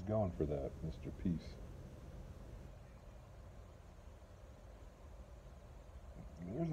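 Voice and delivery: talking around pipe stem; pipe in mouth. Real, not acted. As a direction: lips gripping pipe. Seen 1: Pipe held in hand first; stem between lips from 1.4s onward.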